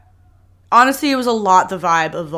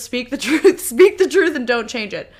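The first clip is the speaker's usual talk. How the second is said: proclaiming motto; 5 semitones higher, 5 dB louder than usual. Retold or imitated. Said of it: "number one on my list says".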